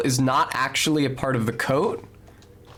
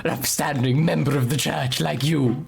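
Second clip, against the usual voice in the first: lightly voiced fantasy elf, gracious; a hint of a courtly game elf; Oblivion elf voice. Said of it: "an Oblivion elf voice for her".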